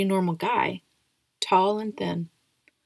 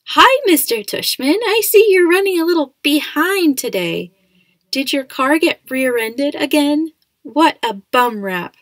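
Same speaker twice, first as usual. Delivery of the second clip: high, loud, hammed-up old lady; fake old lady voice; 8 semitones higher, 9 dB louder than usual. A narrator's reading. Dad clowning to make his son laugh, fake high old lady. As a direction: put on a silly high old-woman voice, projecting. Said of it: "using a fake high old lady voice".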